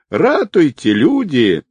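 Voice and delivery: hammed-up alarm wail; mock wail for help. A narrator's reading. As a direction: howl for help like a clown. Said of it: "завопил Волк".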